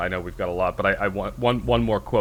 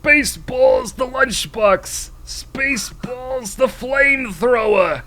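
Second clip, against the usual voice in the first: much higher, louder hammed-up salesman; merch pitch voice; 12 semitones higher, 6 dB louder, slower than usual. Recalling the Spaceballs merch scene, high hammy pitchman. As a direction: shout it like a cheesy pitchman, slow.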